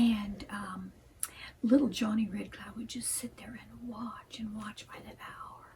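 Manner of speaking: bedtime-story whisper; whispered storytelling. A narrator's reading.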